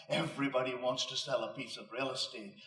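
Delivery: a hint of a guttural Romanian accent; mild Romanian-accented quote; light Romanian accent. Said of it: "in her guttural accent".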